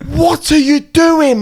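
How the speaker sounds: high, loud and slow; exasperated. Retold or imitated. Asking the mate in the bush, high exasperated. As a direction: stretch it out in disbelief.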